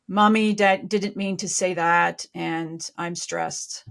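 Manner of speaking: slow, careful parental apology; slow right down, softening toward the end; measured apology. Acted. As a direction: apologize to a child, unhurried. Models a parent's apology to child.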